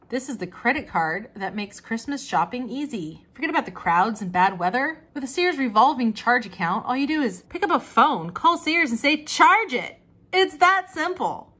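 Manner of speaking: upbeat radio commercial read, rising in pitch. Pretend. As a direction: sell it like a radio announcer, building to the end. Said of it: "get my radio voice out for that one".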